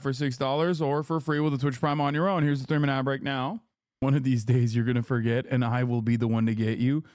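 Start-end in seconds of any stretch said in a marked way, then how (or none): 4.0-7.0 low, menacing anime villain threat; lightly voiced scheming rival, low. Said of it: "Why'd you say that like an anime villain".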